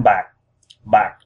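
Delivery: bạc drops and stops short in the throat; glottal falling tone. Shown as a demonstration. Teaching learners silver, bạc falling and stopped in the throat. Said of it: "falling tone that stops in your throat".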